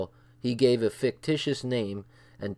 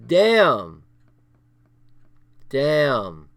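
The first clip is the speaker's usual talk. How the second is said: stunned damn; 7 dB louder than usual. Real, not acted. Reacting to the bomb story.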